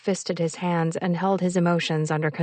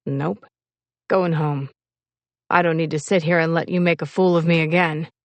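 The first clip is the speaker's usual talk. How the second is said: lightly voiced offended lover; 2 semitones lower, 3 dB louder than usual. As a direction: refuse her with stubborn, understated hurt.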